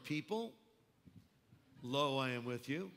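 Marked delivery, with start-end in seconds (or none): 1.8-2.9 "Lo" dropped lower as a pun on "low". Shown as a demonstration. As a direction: say "Lo" low to make the joke. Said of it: "Lo, you know, down low".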